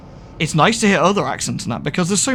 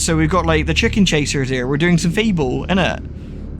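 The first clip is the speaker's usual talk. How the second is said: put-on West Country accent; 3 semitones higher than usual. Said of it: "the West Country one".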